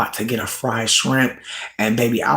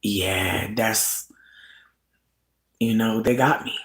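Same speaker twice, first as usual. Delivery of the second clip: soft defeated murmur; 5 semitones lower, 6 dB quieter than usual. Retold or imitated. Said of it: "I was like".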